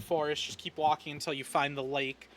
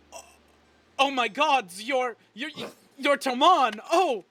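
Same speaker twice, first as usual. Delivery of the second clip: high, loud, breathless fangirl gush; starstruck gushing; 8 semitones higher, 6 dB louder, slower than usual. Acted. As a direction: gush like she just met her hero. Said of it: "and then she goes".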